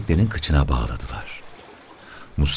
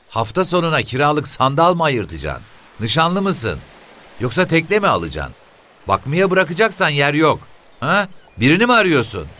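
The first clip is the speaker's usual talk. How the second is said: very high-pitched nosy questioning; shrill, prying woman; 12 semitones higher than usual. Acted. Voices the woman questioning stranger. (tiz sesle sorguya çeken kadın)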